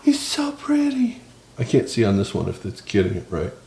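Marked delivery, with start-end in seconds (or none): 0.0-1.2 high, slow, soft pitchman gush; used car salesman voice. Acted. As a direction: coo over the tacos like a salesman. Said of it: "Didn't I say I was gonna stop doing the used car salesman voice".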